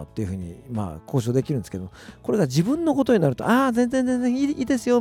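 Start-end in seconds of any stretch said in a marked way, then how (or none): 3.5-5.0 high, overly eager polite brush-off; ultra polite japanese. Retold or imitated. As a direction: wave it off, much higher and meek. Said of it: "みたいなことをね、言ってしまう".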